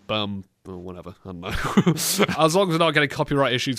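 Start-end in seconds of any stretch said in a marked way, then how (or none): 0.1-0.4 lightly voiced fast-food pitch; burger advert. Host improvising a kiddie meal advert, mock salesman patter. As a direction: improvise a half-serious burger commercial read. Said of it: "an advert for a burger joint".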